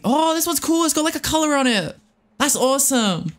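delighted. Real, not acted. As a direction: gush over the new pearl. Delighted by a new pearl.

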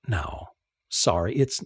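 soft, low hushed apology; whispered. Acted. Narrator whispering an apology to Lizzie across the table. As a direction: hush it as you hold her hand. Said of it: "I took her hand and whispered".

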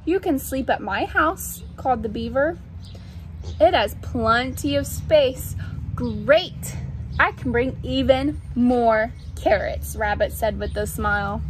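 measured storybook narration; reading to children. A narrator's reading. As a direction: read it to little ones, pausing between phrases. Reads picture book aloud.

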